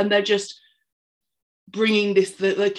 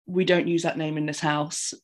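understated, calm quoted rebuke; retold calm; 3 semitones lower than usual. Audrey answers the ungagged woman, retold calm rebuke. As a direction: say it evenly, as if quoting someone unruffled. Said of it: "Audrey just really calmly goes".

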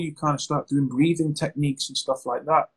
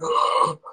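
mock panicked gasp. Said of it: "they're panicking and they're grabbing the chair".

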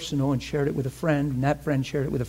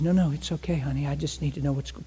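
soothing; 3 dB quieter than usual. Retold or imitated. Comforting the crying woman.

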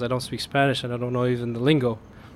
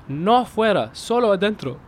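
raised, anxious insisting; nervous pleading; 7 semitones higher than usual. Retold or imitated. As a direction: plead your innocence nervously. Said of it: "I said".

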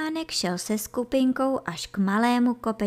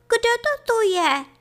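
put-on high, loud kid-goat call; startled cry; 14 semitones higher, 6 dB louder than usual. A narrator's reading. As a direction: cry out in high-pitched alarm. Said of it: "zvolal Kaštánek". (polekané zvolání vysokým hlasem)

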